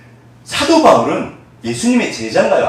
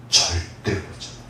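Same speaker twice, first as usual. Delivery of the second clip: low hushed answer from God; whispered God voice; 10 semitones lower, 9 dB quieter than usual. Acted. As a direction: whisper God's reassurance. (하나님 대답을 속삭이듯)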